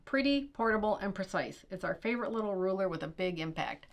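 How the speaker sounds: ad read. Acted. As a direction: sell it like a shopping channel host. Reads product ad copy.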